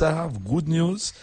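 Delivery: good news said high and slow; high voice change. Shown as a demonstration. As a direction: lift the first good news way up. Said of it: "check out the voice change".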